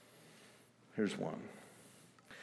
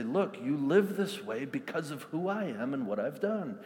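voicing God gently. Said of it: "marching orders to say".

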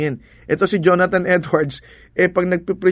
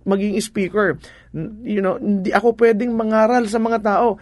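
higher, whiny mock plea to God; pleading excuse; 5 semitones higher than usual. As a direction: play a shy man begging off his calling. Preacher voices a timid excuse-maker. (pabirong pagmamakaawa sa Diyos, mataas ang boses)

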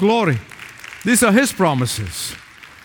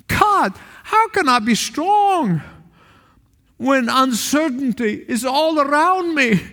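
worried churchgoer praying aloud to God, pleading; anxious plea; 4 semitones higher than usual. Acted. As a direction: cry out to God in worry. Preacher voicing anxious believer's prayer.

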